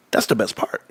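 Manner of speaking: whispered repeat of his glee. Real, not acted. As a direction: hush it out, still grinning. Savouring vindication.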